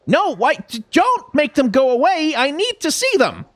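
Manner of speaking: high-pitched squealing plea; squeaky, comically distressed protest; mock panic. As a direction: whine it way up high, pleading with the game. Markers vanish, mock-panicked plea to game.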